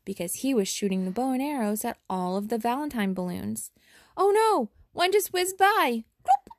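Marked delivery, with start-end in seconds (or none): 4.2-6.5 excited. A narrator's reading. Narrator exclaims at arrow chaos.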